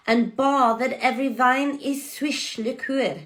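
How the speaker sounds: "swish" said with sw and sh, not sweet; "bathed" as bah-thed, old vowels; Middle English pronunciation. Shown as a demonstration. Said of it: "the swish here means".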